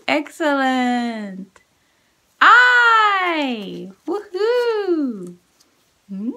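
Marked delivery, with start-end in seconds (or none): 2.4-3.9 I called out loud and high; big voice. Shown as a demonstration. Teacher shouting sight words for kids to repeat. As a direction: shout the word out for the class. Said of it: "Big voice".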